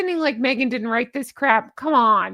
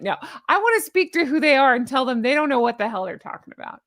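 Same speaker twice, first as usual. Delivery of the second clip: ordinary delivery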